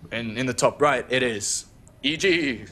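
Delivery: lightly imitated announcer intro with a weird effect; Azael. Caster mimicking funny Master Cup intros, weird announcer voice. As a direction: draw out the team name in a mock player intro. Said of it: "when Azael does this weird thing".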